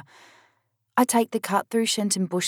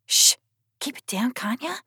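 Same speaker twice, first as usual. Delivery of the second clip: quiet; 6 semitones higher than usual. A narrator's reading. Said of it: "I talk quiet".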